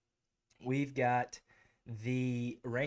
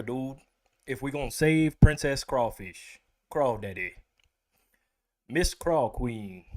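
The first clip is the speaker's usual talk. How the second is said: redneck voice; 6 dB louder than usual. Pretend. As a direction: play a rowdy redneck hero on a quest. Redneck Mario character bit.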